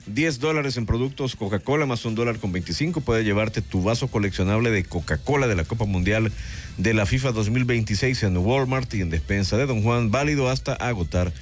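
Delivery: radio promo, drawn-out opening then steady copy; sponsor ad read. Acted. Panelist selling collectible cups to football fans, ad read.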